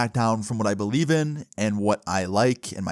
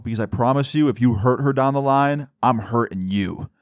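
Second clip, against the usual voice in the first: retold threat. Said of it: "You don't have to threaten me".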